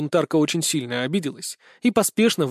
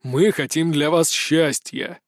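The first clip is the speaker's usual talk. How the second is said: starting to boil; slower than usual. A narrator's reading. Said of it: "Аркадий начинал закипать".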